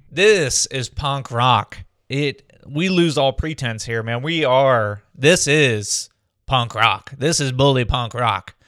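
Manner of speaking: loud, slow radio host hype. Acted. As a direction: announce it like a radio DJ. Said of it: "I sound like a radio D J again".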